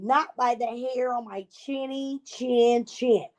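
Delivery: slow, lightly put-on little pig voice; pig's refusal. Little pig refusing the wolf in a slow mild pig voice.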